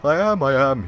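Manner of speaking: ghostly echo. Acted. Ghost character voice.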